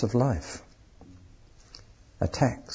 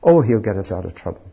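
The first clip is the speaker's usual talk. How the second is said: quick, offhand mock prayer; preacher mocking a selfish prayer, quick and offhand; dismissive mock prayer; 4 dB louder, faster than usual. Shown as a demonstration. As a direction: toss it off like a cheap excuse. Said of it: "not the prayer".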